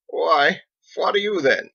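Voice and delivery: high, loud playful pwah back; teasing retort. Acted. Captain jokingly jeering back at the masons, high and loud. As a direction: toss the jeer right back at them.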